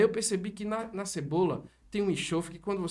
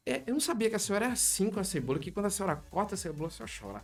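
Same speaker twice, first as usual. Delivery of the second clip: fast, softer, trailing into a near whisper; teasing aside; 6 dB quieter, faster than usual. Retold or imitated. Son teasing his mother about onion tears, soft fast. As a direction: tease her quickly, then let it die away.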